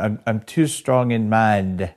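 slow, badly faked Australian accent; attempted Australian accent. Shown as a demonstration. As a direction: have a halting go at an Australian accent. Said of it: "that was an excellent Sri Lankan accent".

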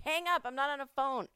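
high, loud catch of own slip; self-correction. Real, not acted. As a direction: snap at your own mistake, amused. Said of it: "I hang up with this podcast".

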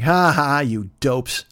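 mocking ha-ha at the fooled; jeering mock laugh; taunting. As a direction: gloat like a juvenile prankster. Prankster taunts the family.

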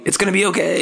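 high-pitched imitated reassuring yell; mock yelling. Host suggesting what dad could yell, high mock call. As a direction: call it out high, without real volume. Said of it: "Did you want him to be yelling".

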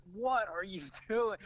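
high, slow, laughing what-are-you-doing; half-laugh of disbelief at being pushed into the fence. Retold or imitated. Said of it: "I'm like".

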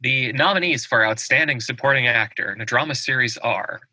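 formal awards-show announcer. Acted. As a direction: read the nominees like a big announcer. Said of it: "That was fantastic announcer voice".

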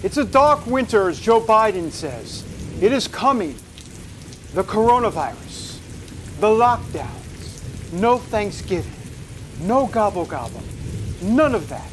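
lightly mock-ominous host, in short portentous phrases; Alfred Hitchcock. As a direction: pause between phrases like a hammy suspense narrator. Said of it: "I think this is my Alfred Hitchcock".

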